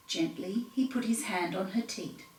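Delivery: whispered, gentle; soft whisper. A narrator's reading. Narrator whispering as Tom gently starts milking. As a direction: hush it like sneaking up on a cow.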